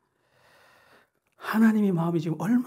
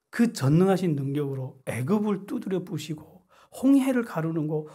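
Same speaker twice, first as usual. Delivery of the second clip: ordinary talk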